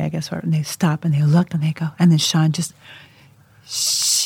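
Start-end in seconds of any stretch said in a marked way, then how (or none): 3.7-4.3 long, piercing drawn-out squeal; super-loud excited boy. Retold or imitated. Mother mimics son seeing the cereal aisle, ecstatic drawn-out cry. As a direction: imitate a kid's uncontainable outburst. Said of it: "super loud".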